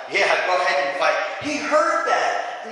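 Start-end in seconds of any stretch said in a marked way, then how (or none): 0.1-1.1 offhand sarcastic go-ahead. Acted. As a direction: wave them on with mock approval. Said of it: "the sarcasm".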